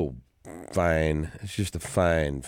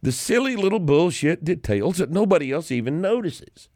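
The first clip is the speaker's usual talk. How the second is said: exasperated rant; 9 semitones higher than usual. Real, not acted. Ranting at critics.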